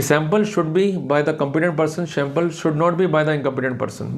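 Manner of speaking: each word laid out very slowly; slow dictation. Shown as a demonstration. Lawyer spelling out the ratio to colleagues, very slowly.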